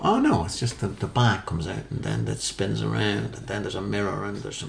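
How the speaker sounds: lightly voiced muddled explainer; thinking it through aloud in a light impression; Alan Davies. Detective working out an impossible trick, lightly voiced impression. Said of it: "That's what Alan Davies sounds like".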